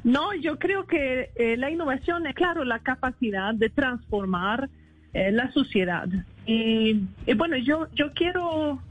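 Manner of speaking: Swedish accent Spanish. Real, not acted. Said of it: "perdonen mi español".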